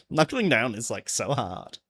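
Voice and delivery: put-on light Valley Girl complaint; a touch of Valley Girl on "like, so hard". Streamer mocking own complaint, light Valley Girl voice. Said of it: "sounding like a Valley Girl".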